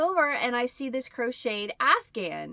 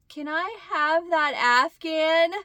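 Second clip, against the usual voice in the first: eager asking; 8 semitones higher, 5 dB louder, slower than usual. Retold or imitated. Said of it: "I was like".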